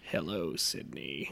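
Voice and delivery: low soft creepy greeting. Pretend. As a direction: lurk and menace softly. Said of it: "kinda like my brother, like, sorta creepy".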